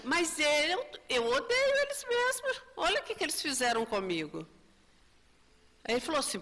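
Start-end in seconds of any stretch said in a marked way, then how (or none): 0.0-4.5 angry yell. Retold or imitated. Spirit yells at the mentor about those he hates. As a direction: burst out high with hate. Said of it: "E ele grita".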